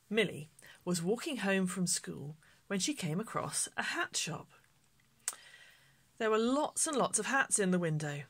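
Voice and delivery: put-on gentle read-aloud to children; storybook narration. A narrator's reading. Vicar reading to children at home, gentle storytelling.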